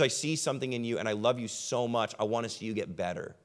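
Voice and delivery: a friend quietly saying the hard thing out of love; tender, quiet friend. Retold or imitated. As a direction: say it gently, like you truly love them. Loving friend speaking privately.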